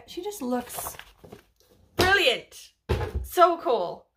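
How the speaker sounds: high, loud gushing praise; real delighted gush. Real, not acted. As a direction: swoon over how cool she looks. Gushing about character's look.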